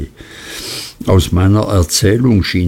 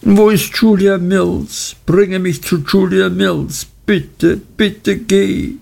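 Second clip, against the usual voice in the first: put-on high, frantic young woman begging; distraught pleading; 9 semitones higher than usual. Dora begs to be taken to Julia Mills, distraught and high. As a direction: pitch up and plead in panic. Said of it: "Dora war außer sich".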